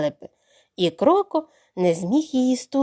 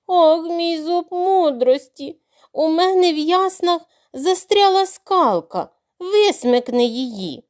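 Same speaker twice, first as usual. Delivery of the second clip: higher, slow, pitiful moan; pitiful groaning; 5 semitones higher than usual. Acted. Crocodile groaning pitifully to lure the duckling. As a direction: whimper for sympathy as a trap. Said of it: "стогне так жалісно".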